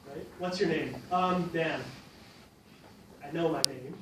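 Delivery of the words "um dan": drawn-out um before answering; filler habit. Shown as a demonstration. Teacher mimics a student answering with a habitual um, hesitant. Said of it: "it's just a bad habit".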